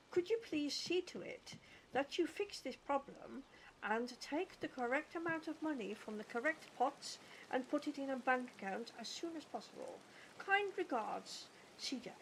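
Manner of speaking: measured, courteous letter dictation; polite formal request. Pretend. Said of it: "Too polite indeed".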